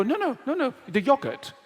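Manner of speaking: high insistent no no no; mock advertiser correcting you; a hint of a pushy seller. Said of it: "And they go".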